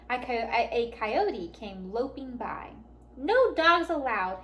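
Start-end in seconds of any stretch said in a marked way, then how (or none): 3.2-4.4 slow, louder, higher angry order; yelled. A narrator's reading. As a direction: bark out the rule. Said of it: "Hank yelled".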